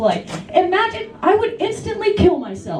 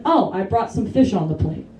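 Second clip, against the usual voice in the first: mock calm; 8 semitones lower than usual. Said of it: "who calmly stood up and apparently said".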